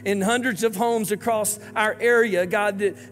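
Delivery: earnest, steady prayer voice with rising pleas; pastor's closing prayer. Acted. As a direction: lift the congregation up to God in prayer.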